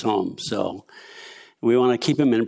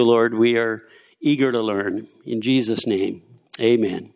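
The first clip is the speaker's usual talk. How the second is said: opening prayer; 3 dB louder than usual. Real, not acted. Preacher asks the Lord for insight before teaching, earnest prayer. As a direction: lead the room in asking God.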